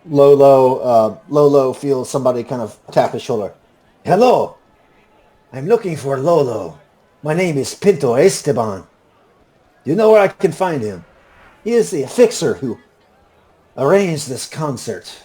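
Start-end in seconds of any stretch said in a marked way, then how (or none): 4.0-15.1 put-on high-pitched, lilting Puss in Boots style accent; courteous stranger in a Puss in Boots accent; Pinto Esteban. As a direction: play a polite visitor with a high Puss in Boots lilt. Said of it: "This is the same accent I used".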